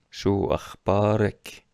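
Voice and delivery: شو اخبارک with "ek" at the end, slow; feminine ek. Shown as a demonstration. Teacher reviewing the feminine greeting slowly. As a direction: say شو اخبارک as "shu akhbarek". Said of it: "شو اخبارک خانم".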